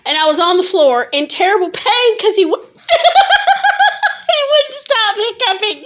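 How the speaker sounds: words broken by giggles; laughing while talking. Real, not acted. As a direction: talk through a laughing fit. Laughing fit while telling story.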